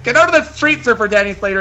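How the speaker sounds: high, loud shout at him; yelling warning. Acted. Woman yelling at her fiance to get out of the street. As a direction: holler to get him off the road.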